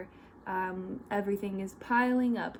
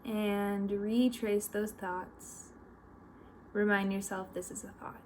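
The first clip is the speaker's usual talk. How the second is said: guided meditation; 5 dB quieter than usual. Real, not acted. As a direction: lead them gently, with long pauses between instructions.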